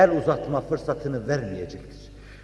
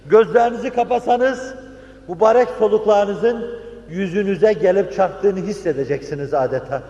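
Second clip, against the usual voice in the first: fervent preaching; 6 semitones higher than usual. Real, not acted.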